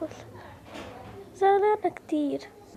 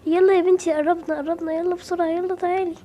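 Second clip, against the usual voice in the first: calling out; 3 dB louder than usual. Acted. Mother hurrying daughter along.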